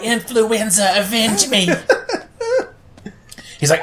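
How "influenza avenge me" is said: dramatic villain. Retold or imitated.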